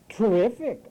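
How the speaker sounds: TERRIFIC with a loud, punched TER; loud mock TERRIFIC, hit hard at the front; emphasized first syllable. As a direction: blast the opening of TERRIFIC, imitating them. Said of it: "they emphasize the first syllable".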